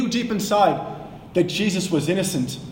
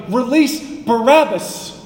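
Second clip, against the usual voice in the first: slow shout, louder and higher; angry crowd shout; 6 semitones higher, 5 dB louder than usual. Retold or imitated. Preacher voicing angry merchants demanding Barabbas, slow loud shout. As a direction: bellow it like furious merchants. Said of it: "the merchants shouting".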